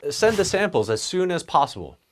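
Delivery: a boss giving a blunt order; direct command. Shown as a demonstration. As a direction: bark it like a boss. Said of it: "pretty direct".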